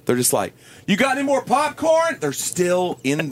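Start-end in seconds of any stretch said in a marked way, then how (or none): 0.9-2.2 high, oblivious calling out; no inside voice. Retold or imitated. Moviegoer asking for popcorn mid-movie, no inside voice. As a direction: ask as if nobody else is there. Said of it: "no inside voice".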